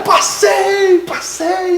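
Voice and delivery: high, rising to a cry; bursting out with the news; overjoyed. Retold or imitated. Telling his father at the airport he passed, overjoyed.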